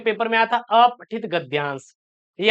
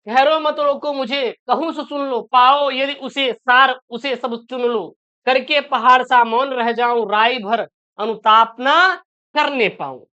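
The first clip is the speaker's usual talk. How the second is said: slow, measured poem reading; verse recitation; 2 semitones higher, slower than usual. Acted. Teacher reciting a textbook verse to students, slow recitation. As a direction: recite the verse slowly, drawing out the phrases.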